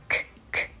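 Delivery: "く、く" as crisp voiceless K releases; firm K. Shown as a demonstration. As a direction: release "く" firmly with no vowel. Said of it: "しっかりね、 発音します".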